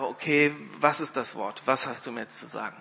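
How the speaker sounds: resigned, softly conceding; grudging indulgence. Retold or imitated. Wimber grudgingly letting the woman speak, resigned. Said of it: "so aus Gnade einfach".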